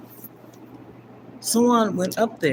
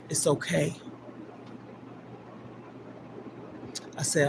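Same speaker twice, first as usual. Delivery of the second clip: tender farewell. Retold or imitated. Farewell words to dying twin.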